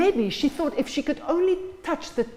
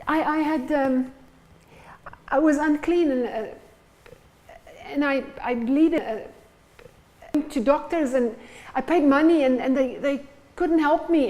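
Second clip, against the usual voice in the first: hesitant confession; 3 semitones higher than usual. Acted. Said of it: "she begins to explain".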